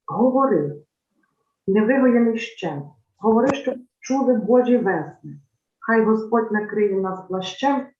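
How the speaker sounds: solemn, measured poetry reading with weighty pauses; poem recitation. Acted. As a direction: recite it like a prayer for the silenced. Recites Ukrainian poem aloud.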